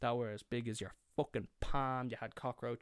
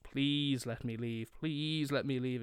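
pleading; 2 semitones higher, 3 dB louder than usual. Retold or imitated. Retold begging friend to leave.

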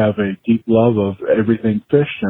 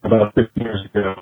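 choppy phone line, words dropping out; cutting in and out like a bad call; buffering stutter; 3 semitones higher than usual. Real, not acted. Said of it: "you're breaking up".

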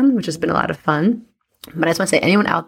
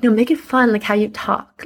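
mock partner voice; 5 semitones higher than usual. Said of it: "you'd be like".

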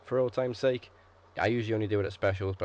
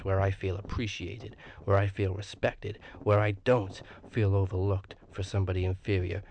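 wrestling promo. Acted. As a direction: cut a dramatic wrestling promo. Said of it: "cut a promo".

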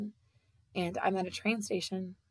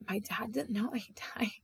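whispered thought; 2 semitones higher, 4 dB quieter than usual. Retold or imitated. Her heartbroken realization on waking.

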